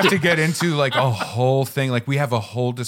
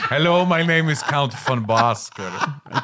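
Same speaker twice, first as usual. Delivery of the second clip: slow, theatrical vampire count; slower than usual. Pretend. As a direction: greet them like an old-world vampire count.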